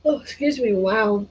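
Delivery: talking through a yawn. Real, not acted. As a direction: yawn while speaking. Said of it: "I don't know why I'm yawning".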